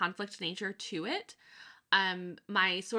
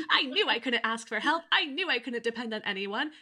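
raised-pitch, self-righteous inner voice; mock vindication; 4 semitones higher than usual. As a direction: crow lightly about being proved right. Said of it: "the satisfaction of".

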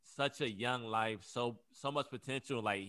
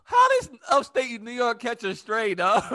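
loud, high, slow through real laughter; laughing disbelief; 10 semitones higher, 14 dB louder, slower than usual. Real, not acted. Friend reacting to upstate New York catching a stray, laughing. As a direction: crack up while protesting, voice shooting up.

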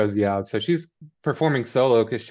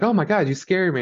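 mock startled; 9 semitones higher than usual. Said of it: "she's like".

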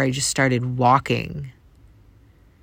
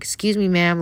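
retold calling out; 5 semitones higher than usual. Man walking after a crying woman, imitated calling out. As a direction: try to get a stranger's attention, imitated. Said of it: "he starts yelling at me".

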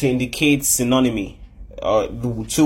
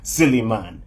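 mock belly laugh, then an amused dismissal; laughing Jesus; 3 semitones lower than usual. Preacher jokingly voices Jesus answering Nicodemus, mock laughter. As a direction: act out laughing off a foolish question. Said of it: "And Jesus laughed".

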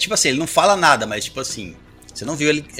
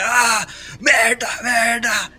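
high, slow yelled cursing in pain; pained shout; 12 semitones higher, 4 dB louder, much slower than usual. Acted. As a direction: cry out from a gunshot wound. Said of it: "Que ele fica gritando lá atrás da pedra".

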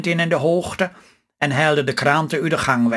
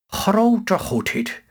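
slow, drawn-out astonished exclamation; sudden gasp of surprise; 4 semitones higher, much slower than usual. A narrator's reading. Wife suddenly sees the winning number, slow amazed exclamation. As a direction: stretch it out, stunned by what she reads. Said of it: "zei Lutske ineens".

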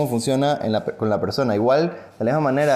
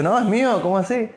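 indignant protest; 10 semitones higher than usual. Acted. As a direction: snap back that it's yours. Poor man claims the horse back. (el pobre protestando, agudo y fuerte)

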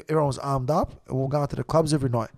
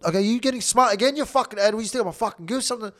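higher-pitched retold angry outburst; going off his head; 5 semitones higher, faster than usual. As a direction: re-enact losing your temper, without shouting. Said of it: "I was going off my head".

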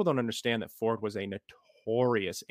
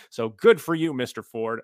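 loud mock congratulations; loud sarcastic cheer; 7 dB louder than usual. Real, not acted. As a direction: slam him with fake praise. Sarcastic jab at Ford.

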